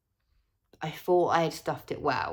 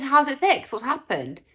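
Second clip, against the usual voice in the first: high, loud shocked question; 8 semitones higher, 6 dB louder than usual. Retold or imitated. Seeing the repaired lamp, shocked and loud. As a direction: burst out in disbelief. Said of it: "And I was in shock".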